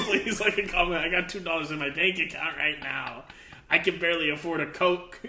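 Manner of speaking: mock pleading with a laugh; half-joking plea to the audience; begging. Host asking viewers to like and comment, mock begging. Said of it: "we're begging".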